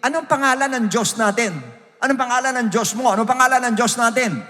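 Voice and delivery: mock questioning from the people; questioning Israelites. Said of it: "And they say to me".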